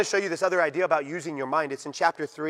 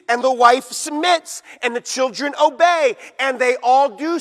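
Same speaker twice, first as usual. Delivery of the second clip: loud, driving pulpit delivery; fiery preaching; 6 semitones higher, 8 dB louder than usual. Acted. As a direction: preach it hard to the congregation. Preaching against cultural conformity.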